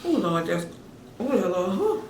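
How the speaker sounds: talking through hiccups; hiccuping mid-word. Real, not acted. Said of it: "I can't even talk right".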